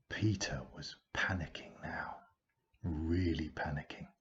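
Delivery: soft tense whisper; whispered panic. A narrator's reading. Narrator whispering Peter's panic, hushed and tense. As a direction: whisper it, tension rising.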